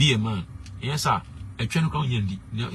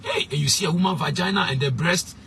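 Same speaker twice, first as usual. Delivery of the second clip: mock preacher; 7 semitones higher, 4 dB louder than usual. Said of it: "he was preaching, was talking about".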